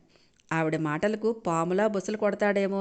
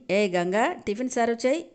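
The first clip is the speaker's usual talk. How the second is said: haughty, higher order to the maid; arrogantly; 4 semitones higher than usual. Acted. Neeraja ordering the maid to serve breakfast, haughtily. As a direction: boss the servant around. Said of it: "అని పొగరుగా అడిగింది నీరజ".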